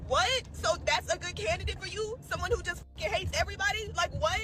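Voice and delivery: disbelief. Real, not acted. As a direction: react in stunned disbelief. Incredulous at brother's answer.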